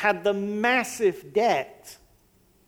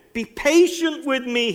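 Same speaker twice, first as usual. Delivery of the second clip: high pleading voice of a begging servant; 6 semitones higher than usual. A narrator's reading. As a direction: beg him for time, voice lifted. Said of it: "he begged".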